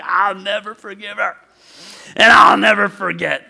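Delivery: mock-furious vow, building in force; imitated anger. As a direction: act out the angry brother, hitting the second vow harder. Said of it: "He never got this angry".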